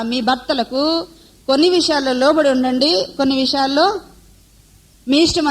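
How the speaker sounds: a light mocking reading of "కొన్ని విషయాల్లో" as if the verse allowed choice; mock misquote. Shown as a demonstration. Preacher mocking a softened verse to the wives, teasing. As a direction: tease the women with the wrong version, "కొన్ని" lightly leaned on. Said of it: "అన్నాడా?".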